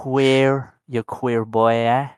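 lightly put-on, shaky-quality British accent attempt. Host teasing his friends as a Brit, bad British accent. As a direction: have a go at a not very good British accent. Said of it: "what's up with my British accent".

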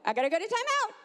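put-on high, emphatic child voice; blurting little girl. Girl sending herself to timeout, high child voice. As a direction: imitate a child announcing her own punishment. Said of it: "blurt another word out".

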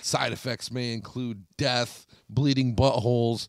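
a lightly voiced TV ad read; mocking a drug ad's list of side effects. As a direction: parody a pharma commercial. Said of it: "They'll be like".

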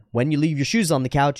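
calm, even statement of a concern; earnest and measured; direct, sincere. Shown as a demonstration. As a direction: say it seriously, without accusation. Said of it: "directly and seriously and sincerely".

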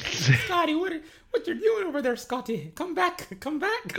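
high, loud mock Scottish shepherd calling a goat; terrible Scottish accent. Shepherd calling a rebellious goat Scotty, hammed-up Scottish accent. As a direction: call after a runaway goat in a bad Scottish accent. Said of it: "my terrible Scottish accent".

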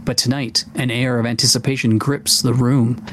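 measured read-aloud of a fantasy introduction; lightly dramatic tavern scene-setting; story narration. Acted. Host reading a generated D and D tavern introduction to listeners, story narration.

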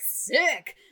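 lightly voiced dramatic British actress; dramatic diva quote. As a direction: toss it off like a diva recoiling. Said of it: "And she's like".

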